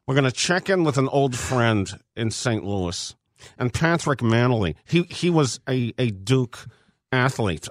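solemn coach's pep speech. Pretend. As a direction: speak like Coach K addressing the team. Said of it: "can you do so in your Coach K voice".

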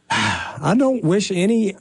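slow, sighing attempt at sincerity; failed straight face. Host retrying a well-wish to rivals, failed straight face. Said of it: "can't say it with a straight face".

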